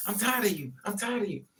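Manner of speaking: put-on repeated angry cry, high, insistent, held in. Retelling a partner who screamed while pushing: imitating someone screaming. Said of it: "He's screaming at me".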